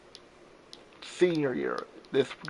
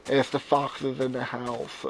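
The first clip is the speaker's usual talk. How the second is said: slow deadpan repeat; slower than usual. Real, not acted. Repeating the fox joke deadpan.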